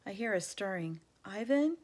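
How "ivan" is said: higher, louder call into the dark. Acted. Young elephant calling her friend at night. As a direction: call his name across the cages. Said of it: "Ruby calls".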